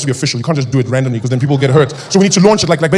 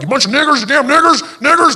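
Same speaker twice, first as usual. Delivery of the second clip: much higher, louder contemptuous shout; racist yelling; 11 semitones higher, 5 dB louder than usual. Retold or imitated. Old American racist abusing black people, high angry yell. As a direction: spit the insult at them. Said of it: "people were like".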